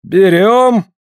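loud, high, strained order; commanding call. Acted. Afanasy orders the lift over the log, loud strained call. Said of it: "постражал голосом".

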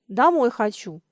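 ordinary delivery

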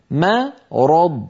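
مرض stretched, the ميم thin, راء and ضاد full; نطق مرض ببطء شديد مع ترقيق الميم; very slow model. Shown as a demonstration. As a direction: drawl مرض with a light mīm. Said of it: "الميم مرققة".

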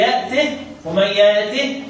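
نطق "يأته" بهاء ساكنة; الوقف على هاء "يأته" دون حركة. Shown as a demonstration. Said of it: "الوحيد اللي هيسكن الهاء". (سكّن الهاء في "يأته")

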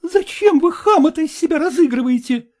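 high, scornful cry; the daughter snapping at the fawning suitor; contemptuous retort. A narrator's reading. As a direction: throw it at him with contempt. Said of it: "крикнула Катерина Петровна".

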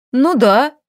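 mock-gruff snap; snapped. A narrator's reading. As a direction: bark it back defiantly. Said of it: "рявкнула Юлианна".

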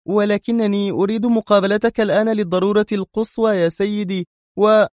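high, flustered woman's voice. Acted. Mona begging Bruce for an urgent meeting, flustered. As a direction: plead urgently, thrown off balance. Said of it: "ارتبك صوت منى على نحو طبيعي".

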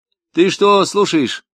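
a fidgety crook trying to impress; lightly voiced nervous crook; nervous Tamarkin. A narrator's reading.

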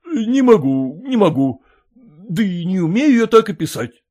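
a surprised landowner asking back; puzzled master. Acted.

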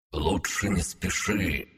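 muffled, soft and slow, as if under water; underwater voice. Acted. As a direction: speak as though heard through water. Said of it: "зазвучал, как под водой, голос Артура".

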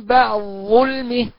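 slow بعد ظلمه with the د swallowed into the ظ; full merging. Shown as a demonstration. Teacher showing full assimilation of dal into zha. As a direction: merge the dal fully into the zha. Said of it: "تاني".

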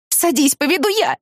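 high voice cracking on the order; voice breaking. A narrator's reading. Woman ordering friend into car, voice breaking. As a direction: try to sound firm but crack. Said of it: "Мой голос сорвался".

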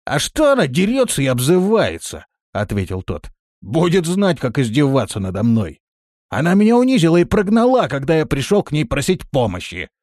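выше и громче, с обидой; возмущённо жалуясь; обиженный Рохля. A narrator's reading. (с обидой)

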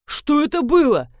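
outraged, sharp demand; indignant. A narrator's reading. Colonel, startled by the rat, indignantly demands answers. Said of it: "возмутился полковник".

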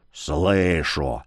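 едва слышный сип, низко и тихо; выдавить сквозь сип; сипло. A narrator's reading. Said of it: "просипел Яромир". (сиплый шёпот)

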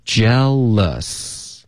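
"Jealous" drawn out syllable by syllable; "Jealous" said long and deliberate; slow model word. Shown as a demonstration. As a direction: stretch "Jealous" slowly for learners. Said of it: "跟of连读".

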